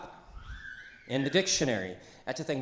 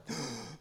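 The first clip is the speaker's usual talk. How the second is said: soft gasp; 10 dB quieter than usual. Shown as a demonstration.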